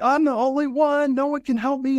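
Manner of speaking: hammed-up despairing wail; ranting. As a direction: cry it out high and loud like a tantrum. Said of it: "And I'm, like, ranting".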